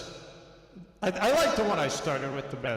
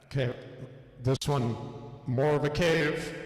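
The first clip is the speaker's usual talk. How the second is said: cave echo effect. Real, not acted. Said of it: "Cave underwater".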